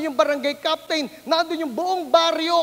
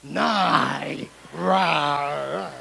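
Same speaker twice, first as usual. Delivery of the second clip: put-on whiny kid; 11 semitones lower than usual. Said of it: "child refusing mother".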